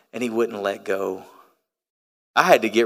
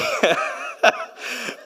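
burst of laughter. Real, not acted. Big laugh.

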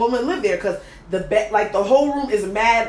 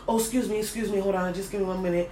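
softer imitation of hasty excuses; hushed apology; 2 semitones lower, 7 dB quieter, faster than usual. Imitating him excusing himself from his date, softly.

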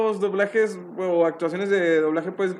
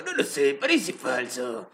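lower, softer, slow documentary dub drawl; mock slow, low reality-show dub line; Don Cangrejo dub voice; 6 semitones lower, 6 dB quieter, slower than usual. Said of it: "la voz de Don Cangrejo haciendo la voz".

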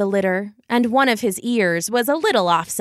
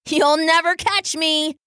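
higher-pitched, playful brother voice; gleeful taunt; 7 semitones higher than usual. A narrator's reading. Brother running off with the tapestry, gleefully taunting. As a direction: toss it back teasingly, pitched up.

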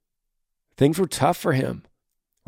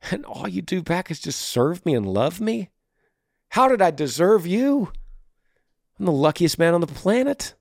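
lightly acted grateful confession, pitched up; mildly hammed-up, higher-voiced gratitude; softened husband; 5 semitones higher than usual. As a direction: play a humbled husband marveling at his wife. Acts out husband softened by love.

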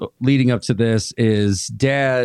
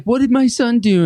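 worried mom; 11 semitones higher than usual. Retold or imitated. Mother asks about her missing son, high mock wail. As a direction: cry out in a shrill mother's voice. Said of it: "She's like".

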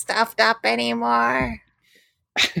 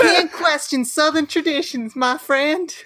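a lightly put-on American Southern accent, a little higher; 5 semitones higher than usual. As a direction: play the folksy Southern gentleman. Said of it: "British accents".

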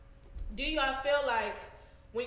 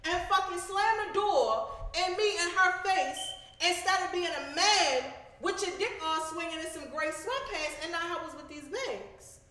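higher, louder, slow heated rant; angry confrontation; 5 semitones higher, 3 dB louder than usual. Retold or imitated. Confronting the boyfriend about the bags, angry. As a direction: tear into him for not helping. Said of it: "I said".

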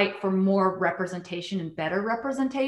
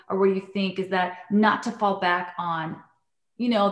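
usual speaking voice

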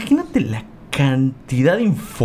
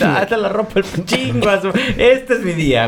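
excited; 7 semitones higher than usual. Acted. Excited about putting on clothes.

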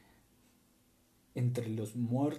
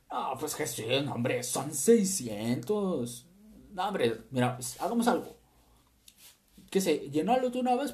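mock servants' banter; 3 semitones higher than usual. Imagined servants arguing, higher pitch.

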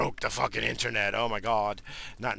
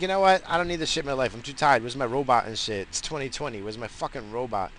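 fed-up rant; 3 semitones higher, 4 dB louder than usual. Retold or imitated. Fed-up rant quoting himself.

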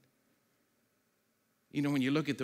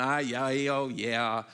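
playing the congregation humoring the pastor; mock chuckling dismissal; 6 dB louder, much slower than usual. Congregation chuckling at the underground church idea, mock skeptical. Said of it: "Everybody kinda chuckled".

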